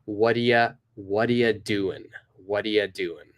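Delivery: "whadia doing" blended, no G at the end; relaxed native "whadia doing"; linked whadia doing. Shown as a demonstration. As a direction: run it together as "whadia doin". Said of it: "So it's".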